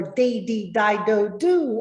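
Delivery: put-on punchy over-articulated "Baby, Bible, boo"; consonant drill. Shown as a demonstration. Teacher demonstrating a diction warm-up to learners, exaggerated articulation. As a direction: pop every b with the lips. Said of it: "maybe I say".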